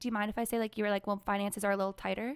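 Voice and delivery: plain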